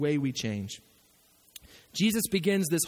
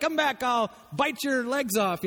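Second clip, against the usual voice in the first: slow, lightly voiced defiant knight; Black Knight quote; 2 semitones higher, slower than usual. Preacher quoting the legless knight to the congregation, light taunt. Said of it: "They're like".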